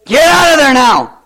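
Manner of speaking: put-on shouted high and loud at the kid; stern parent yell. Parent yelling at daughter in the pantry, loud stern shout. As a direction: snap at the child caught in the pantry.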